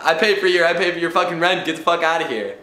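mock angry.

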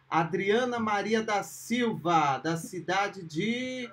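building up to the winner's name; slow, then rising into a big announce; excited winner announcement. Real, not acted.

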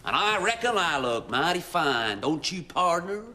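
a light hint of a cowboy accent, pleased with himself; cowboy drawl. Driver in cowboy costume showing off, a hint of a cowboy accent. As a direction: lightly put on a cowboy twang. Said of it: "it's a cowboy costume".

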